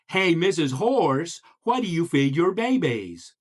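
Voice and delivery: wide-open stretched vowels; goofy, inquisitive frog question; big-mouthed frog. Acted. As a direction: exaggerate each syllable with an open mouth. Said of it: "What did the big-mouthed frog ask".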